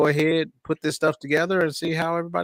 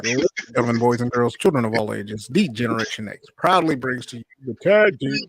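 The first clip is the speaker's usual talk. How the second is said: ringmaster; 3 dB louder than usual. Retold or imitated. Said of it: "you gotta go back and add, uh, the introduction".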